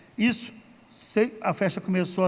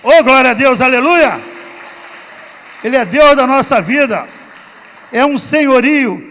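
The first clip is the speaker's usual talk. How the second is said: louder, higher fervent preaching; preaching at full force; 5 semitones higher, 11 dB louder than usual. Real, not acted. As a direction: build into a rousing sermon. Preaches to congregation after testimony.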